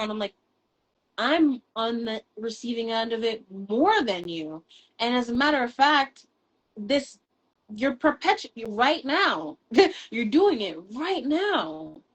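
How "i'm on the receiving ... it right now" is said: higher, louder, rising to a laughing accusation; heated retort. Retold or imitated. Telling her ex he is doing it right now, heated higher louder retort. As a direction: call him out as he does it. Retold argument with abusive ex.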